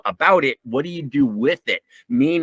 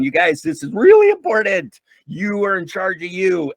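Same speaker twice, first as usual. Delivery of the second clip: urgent appeal; 5 semitones higher than usual. Retold or imitated. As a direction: press it on everyone as vital news.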